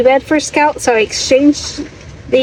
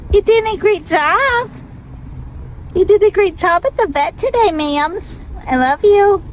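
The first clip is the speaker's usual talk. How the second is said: higher, sing-song praise to a pet; dog praise voice; 5 semitones higher than usual. Real, not acted. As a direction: coo at the dog like a proud mom. Praising dog after vet.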